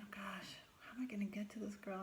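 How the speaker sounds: breathy whisper, fast at the end; worrying to herself about reaching the girl. Retold or imitated. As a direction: hush it out as a private fret.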